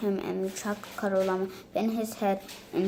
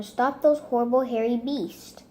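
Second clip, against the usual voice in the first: shouting; 4 semitones higher, 5 dB louder than usual. Acted. Goblin shouting after llamas.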